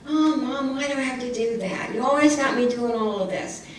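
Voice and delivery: mock childish whine; whining child. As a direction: whine like a kid asked to do chores.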